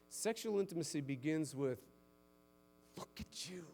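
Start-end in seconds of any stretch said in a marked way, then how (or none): 3.0-3.6 softly, much softer, almost breathed; tender admiring hush. Acted. Husband marvelling at his wife, hushed and tender. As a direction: say it like you can't look away.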